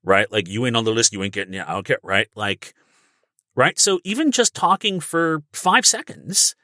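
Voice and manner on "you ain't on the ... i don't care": stubborn guard. Retold or imitated. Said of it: "stubbornness, unwilling to budge".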